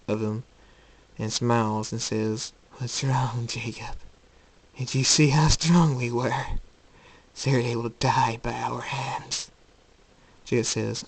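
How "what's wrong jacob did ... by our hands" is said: lightly voiced taunting alter ego; gloat, drawing out the final threat; insane double, gloating. Insane Jacob taunting his real self, gloating.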